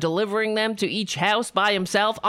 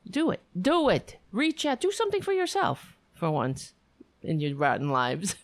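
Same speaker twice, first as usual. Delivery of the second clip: mock urging. Urging viewers, then joke.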